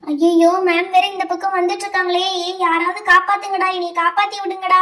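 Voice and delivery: loud, frantic plea to friends; panicked cry for help. Acted. Student begging friends as the teacher approaches, loud and panicky. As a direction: beg the classmates to save you.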